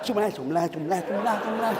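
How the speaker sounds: mock rushed chant of "semlah"; too-fast zikir. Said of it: "makan pisang goreng panas".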